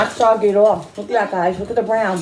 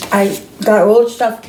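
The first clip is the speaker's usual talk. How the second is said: mouth full; 4 dB louder than usual. Real, not acted. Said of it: "I'm talking my mouth full".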